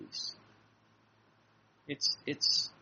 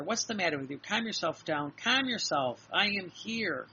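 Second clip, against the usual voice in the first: chiding then emphatic, pitch rising; firm reassurance; 3 semitones higher, 4 dB louder than usual. Retold or imitated. Jesus telling her to calm down, firm reassurance. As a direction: insist that she settle, building louder. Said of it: "so here's Jesus saying to her".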